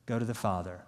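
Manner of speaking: ordinary talk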